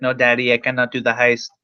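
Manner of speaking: lightly voiced, bad robot impression; half-hearted attempt at a childlike robot's line; a hint of a badly imitated robot; horrible Chappie impression. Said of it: "That's a horrible Chappie impression".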